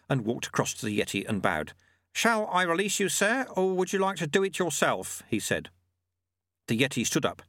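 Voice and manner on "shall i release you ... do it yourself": put-on raised, calm old sweeper; old monk voice. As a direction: voice the sly old monk lightly. Narrator voices Lutze.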